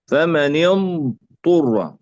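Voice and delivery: فمن اضطر very slowly, ض held before ط; slow اضطر with ض and ط unmerged; separate lengthened dad. Shown as a demonstration. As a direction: draw out the ض in اضطر, then a clean ط. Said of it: "ضاد أولًا".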